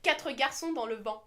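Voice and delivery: "Quatre garçons dans le vent" in fluent French; proper French. Shown as a demonstration. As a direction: read the French title properly. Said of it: "Actual person who knows French".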